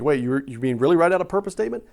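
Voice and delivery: imagined listener double-checking, with a rising end; incredulous question. Acted. Congregant questioning the speaker's homework, incredulous. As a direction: ask it in disbelief, stumbling on "you".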